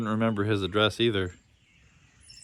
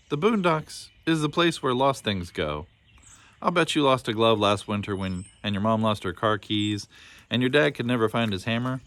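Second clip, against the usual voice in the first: lightly voiced old caretaker. Old Booney explains the boondocks to the lost boy, lightly voiced. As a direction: explain the place like a friendly old keeper.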